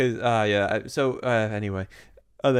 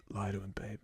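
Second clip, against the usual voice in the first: a mild, soft, offhand line; too cool; 3 semitones lower, 14 dB quieter than usual. Retold or imitated. Mocking Edward's calm, a lightly cool offhand line. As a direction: toss it off like it's nothing. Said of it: "this cool".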